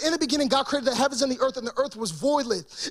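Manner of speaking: quick, even reading of the verse; scripture reading. Shown as a demonstration. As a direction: read the verse out plainly and briskly. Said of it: "It says in Genesis chapter one".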